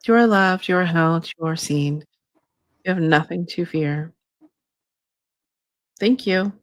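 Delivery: slow, calm channeling voice; channeled spirit guide. Acted. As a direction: speak as a gentle guide spirit. Channels her guide Shay.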